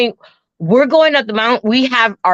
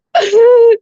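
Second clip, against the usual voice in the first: high mock sob; acted-out burst of crying; imitated crying; 14 semitones higher, 5 dB louder than usual. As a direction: wail briefly as if crying hard. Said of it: "I'm, like, crying hard".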